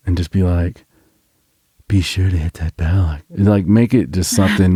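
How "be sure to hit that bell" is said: light spooky horror-host voice; hint at a horror-movie announcer. Shown as a demonstration. Host showing co-host the bell plug, mild horror voice. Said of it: "like, your biggest horror voice".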